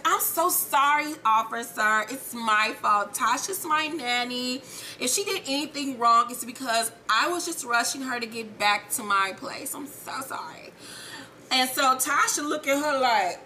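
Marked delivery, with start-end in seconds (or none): 0.0-10.7 apologetic. Retold or imitated. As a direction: play the contrite passenger sweet-talking an officer. Acted apology to police officer.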